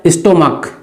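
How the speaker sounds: "स्टोमक" ending in a hard k sound; correct pronunciation. Shown as a demonstration. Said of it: "क्या पढ़ेंगे इसको". ("स्टोमक" के अंत में क की आवाज़)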